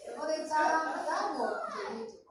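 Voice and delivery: sugar-coat it, rising to querido; mock sweetness. Wife sweetly telling husband she is going to bed, mock sweet.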